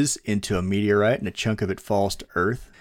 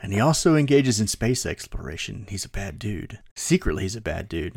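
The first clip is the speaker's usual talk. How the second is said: movie trailer voice. Acted. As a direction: tell it like an epic movie trailer. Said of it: "you have trailer voice".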